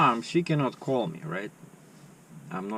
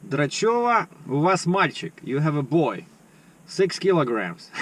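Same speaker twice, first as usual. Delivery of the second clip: higher, louder mock nurse announcing the birth; pretend nurse; 4 semitones higher, 4 dB louder than usual. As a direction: announce the baby like a hospital nurse. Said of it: "kinda like as if I'm a nurse".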